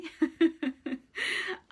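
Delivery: a short high laugh through tears; tearful laugh. Real, not acted. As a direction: laugh it off, a little overwhelmed. Apologises for blubbering.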